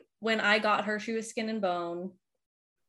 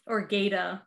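Boston accent. Shown as a demonstration. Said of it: "supposed to be Gator with a Boston accent".

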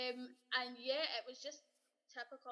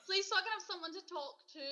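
pleading; 8 semitones higher, 7 dB louder, faster than usual. Retold or imitated. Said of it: "I'm like".

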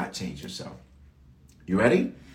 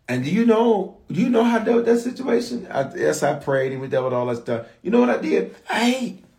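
excited build-up; 10 semitones higher, 3 dB louder than usual. Acted. Preacher building to a punchline.

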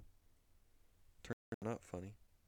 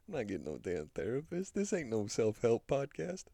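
defiant shout; 2 semitones higher, 9 dB louder than usual. Acted. Defiant outburst about therapist.

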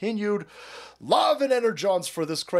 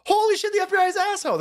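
mock shock; 4 dB louder, faster than usual. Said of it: "And everybody goes".

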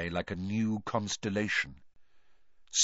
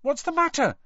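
high startled question; 4 dB louder than usual. Acted. Harry to Hermione, seeing her face so white, startled. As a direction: ask in sudden concern. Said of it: "startled to see her face".

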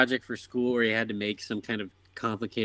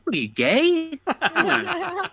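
gruff dad voice; slower than usual. Retold or imitated.

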